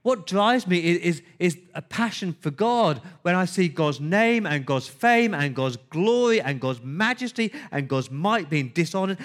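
burn with zeal as David; fervent proclamation; passionate. Acted. David voiced, passionate for God.

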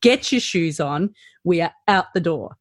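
put-on brisk no-nonsense mum herding kids. Mother hurrying children out the door, firm and brisk. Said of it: "you get your mum voice on".

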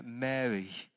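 soft, low-key voicing of a name; tender name-calling. Preacher voices Jesus calling Mary by name, tender and soft. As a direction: say the name gently and quietly.

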